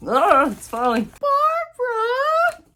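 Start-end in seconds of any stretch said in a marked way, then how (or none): 1.1-2.6 delighted cry. Real, not acted. Discovers who sent the book.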